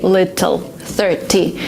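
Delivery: "little, thirty" with hard, deliberate t sounds; over-articulate the t in "little, thirty"; careful T. Shown as a demonstration. Teacher admitting it feels unnatural, hard-t "little, thirty". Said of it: "it's even unnatural for me to say".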